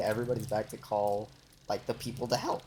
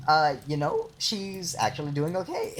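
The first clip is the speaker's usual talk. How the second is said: higher, hammed-up all-is-well report; exaggerated mock reassurance; 3 semitones higher than usual. Retelling the update to security guards, in exaggerated mock reassurance. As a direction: overplay the awkward good news. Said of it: "I didn't say it like that".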